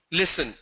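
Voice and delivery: "Listen" with a voiceless s, LISS-en; correct pronunciation demo. Shown as a demonstration. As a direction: say "Listen" with a hissed s, falling. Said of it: "This is how you pronounce listen".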